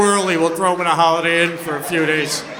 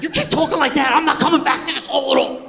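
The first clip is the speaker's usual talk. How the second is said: higher, quick sassy comeback; snippy retort; 8 semitones higher, 4 dB louder, faster than usual. Retold or imitated. As Jodie Foster answering the girl in the hole, quick and sassy. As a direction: fire back a quick put-down. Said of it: "I'm like".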